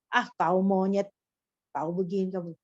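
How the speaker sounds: lightly voiced teasing between friends; mock-insult a buddy with a grin; joking insult. Close friends trading playful insults, light teasing. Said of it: "mereka bergurau".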